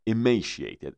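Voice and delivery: "emaciated" with a held, doubled "m". Shown as a demonstration. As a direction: lean on the "m" of "emaciated". (تشدید روی «م» در "emaciated")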